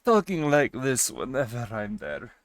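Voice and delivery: a lightly put-on character voice; put-on stream voice. Shown as a demonstration. Streamer showing chat a possible new voice, lightly put on. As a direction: slip lightly into an alternate stream persona. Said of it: "so I can talk in my normal voice".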